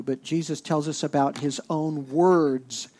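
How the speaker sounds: words held and pushed down at the end; his own words, with words stressed and falling. Shown as a demonstration. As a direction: land hard on the word words. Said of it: "I'm emphasizing that word, words".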